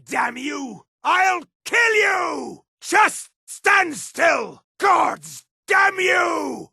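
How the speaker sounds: furious battle threats. Acted. Fighter trying to kill the foe, furious battle threats. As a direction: roar threats at the enemy. Acted combat death threats.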